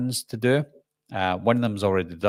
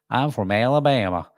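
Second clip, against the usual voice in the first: playful put-on Southern US twang; mock Alabama accent. Scot mocking the idea he sounds Texan, fake Alabama accent. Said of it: "It's Alabama".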